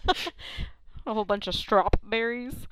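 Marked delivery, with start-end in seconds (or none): 1.5-2.7 "strawberries" said as strop-berries; teasing strop-berries, P sounded; added P. Shown as a demonstration. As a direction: slip a popped P into "strawberries". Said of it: "there's a silent P in strawberries".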